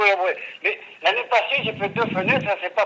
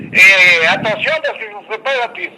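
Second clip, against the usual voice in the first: stern warning; 7 dB louder than usual. Real, not acted. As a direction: lean hard on the warning. Customer warns the company man.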